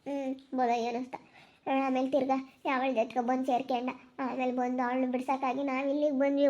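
subdued, softly spoken sorrow; weary lament. Real, not acted. Telling of poverty and a drinking husband, mournful.

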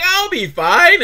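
high, slow carefree dismissal; mock drunk. Drunk husband waving off his wife, slow and high. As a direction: brush her off lazily. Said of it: "He's like".

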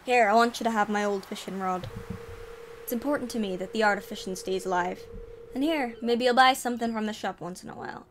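booming ahoy in a vaguely Scottish sailor voice; sea dog accent. Acted. Willy the fisherman greets the newcomer in a mock Scottish accent. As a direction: play a gruff old fisherman, half Scottish. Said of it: "It might be Scottish".

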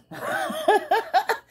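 high-pitched delighted squeal of a laugh; shrieking giggle. Real, not acted. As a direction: let a squeal of laughter burst out. Giggling at friend's video.

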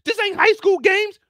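shouting it loud and high; loud fired-up declaration; impassioned yell. Retold or imitated. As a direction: declare it like a heated quote.

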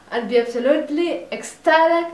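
excited. Real, not acted. Gushing about the chance to play.

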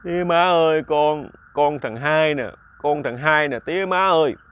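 lightly tearful, slow plea to the parents; a hint of weeping; understated sobbing son calling his parents; mild mock crying. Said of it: "ông quỳ xuống ông khóc".

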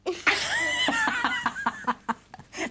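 high-pitched giggling laugh; silly laugh. Pretend. Presenter playing the dolly, silly high laugh.

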